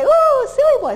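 the wrong way: squeal it up high; high excited voice. Shown as a demonstration. Trainer showing the wrong high-pitched response to a growl. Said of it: "So I wouldn't say".

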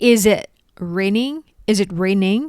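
"Is it raining" linked as "izit"; fast linked speech. Shown as a demonstration. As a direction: join the sounds, say it fast. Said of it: "พูดเร็วๆ เชื่อมเสียง". (พูดเร็วๆ เชื่อมเสียง)

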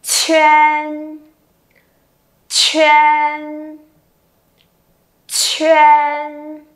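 each "Chên" long, with a puff of air on Ch; aspirated initial. Shown as a demonstration. Teacher continues aspiration drill, "Chên" strongly aspirated. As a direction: burst air into "Chên" and sustain, pausing between takes. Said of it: "Tiếp tục bật hơi nhá".

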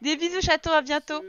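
high, loud send-off; affectionate goodbye. Real, not acted. Streamer saying goodbye to a viewer, affectionate call.

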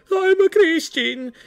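put-on high, loud, slow heavy foreign accent on I'm a Christian. Cameraman blurting to the trolls in a thick accent. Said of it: "that's how he said it".

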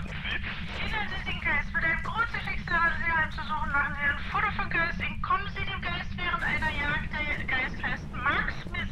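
slurring around a candy in mouth; talking while chewing candy; mouth full. Real, not acted. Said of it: "warum lallst du so?".

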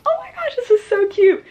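high, loud squeal of delight; delighted gushing. Retold or imitated. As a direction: gush over an adorable gift. Acts out reaction to gift.

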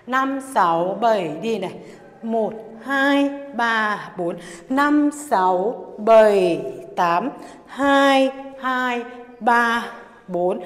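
punchy dance-class beat count. Acted. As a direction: call the beats out to the music.

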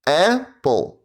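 Apple split into flat robotic syllables. Shown as a demonstration. Teacher saying Apple like a robot for kids. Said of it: "як робот по складах".

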